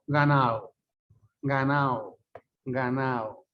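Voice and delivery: "Ganado" sin la d, como "ganao"; d caída. Shown as a demonstration. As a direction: di "Ganado" dejando caer la d: "ganao". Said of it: "Es así". ("Ganado" con la d desaparecida, ga-nao)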